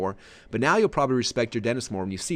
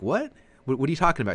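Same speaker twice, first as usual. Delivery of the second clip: shocked disbelief; 5 semitones higher, faster than usual. Retold or imitated. Shocked at dentist's comment.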